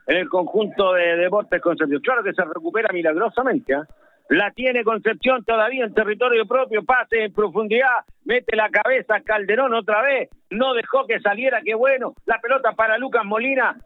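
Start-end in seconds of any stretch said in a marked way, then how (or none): 4.3-13.7 football radio commentary, running with the ball; South American radio football commentator; live play-by-play. Real, not acted. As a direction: call the match live on radio.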